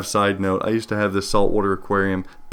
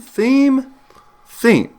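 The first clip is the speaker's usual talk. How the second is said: game callout voice; 14 semitones higher, 4 dB louder than usual. Retold or imitated.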